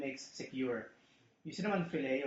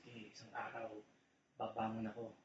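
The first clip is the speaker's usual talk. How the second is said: a hint of a vengeful movie hero, half-laughing; mock movie revenge line. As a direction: ham up a revenge vow from a film. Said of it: "yun ang nakapanood dati sa movie". (pabirong linya ng naghihiganti sa pelikula)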